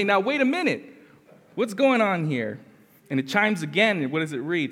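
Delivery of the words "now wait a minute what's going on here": high, loud wait a minute; baffled, higher and louder; surprised protest. Retold or imitated. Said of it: "And you say".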